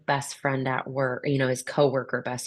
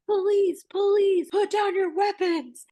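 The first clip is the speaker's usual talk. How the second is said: police yell. Retold or imitated. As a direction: bark it through the door as a warning. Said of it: "they yell".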